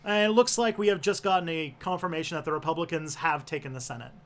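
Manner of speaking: put-on genteel Southern belle accent; fancy Southern politician announcing news; refined Georgia-style Southern accent; Lindsey Graham. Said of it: "He sounds like a Southern belle".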